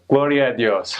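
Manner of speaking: church exclamation. Retold or imitated. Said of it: "looks up and goes".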